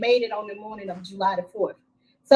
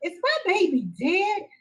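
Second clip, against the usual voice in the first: frightened plea; 9 semitones higher than usual. Retold or imitated. Retold asking if daughter died.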